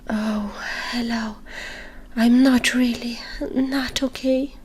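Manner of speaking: weak muffled dove voice. Acted. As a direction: speak muffled and weak, hurt. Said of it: "with a muffled voice".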